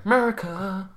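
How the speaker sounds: exaggerated American hick accent. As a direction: say "America" as a joking American 'Murica cheer. Joking patriotic shout after naming ancestry.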